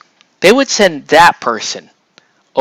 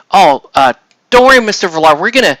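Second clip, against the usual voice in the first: eager salesman; 4 semitones higher than usual. Retold or imitated. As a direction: suck up to the customer now. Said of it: "he's like".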